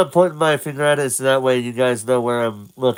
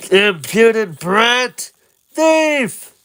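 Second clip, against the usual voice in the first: angry vendor; 9 semitones higher, slower than usual. Acted. Vendor scolds Link, high angry cry. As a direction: snap at the thief. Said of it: "vendor scolding".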